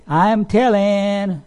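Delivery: slow sing-song tattling; a busybody running to tell the king; tattletale. Retold or imitated. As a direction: drag out a childish "I'm telling".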